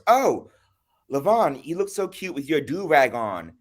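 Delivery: high, chirpy imitation of the white friend; mock friend voice. Retelling a white friend's compliment, mock high voice.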